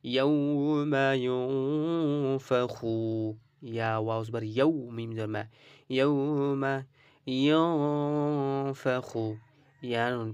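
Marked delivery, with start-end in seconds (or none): 0.1-3.0 ইয়াউমা ইউনফাখু drawn out in recitation style; slow recitation demo. Shown as a demonstration. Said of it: "okay". 6.0-9.2 ইউনফাখু slowly with nasal উন; slow recitation demo. Shown as a demonstration. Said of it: "okay".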